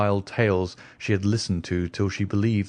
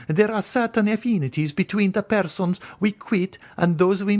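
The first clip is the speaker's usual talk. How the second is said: higher, anxious noblewoman's voice; the Countess; 9 semitones higher than usual. Acted. Countess warning Franz away from the stranger, higher anxious voice.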